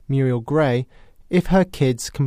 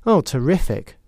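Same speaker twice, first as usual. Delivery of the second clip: exaggerated sarcasm. Shown as a demonstration. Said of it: "really go for it".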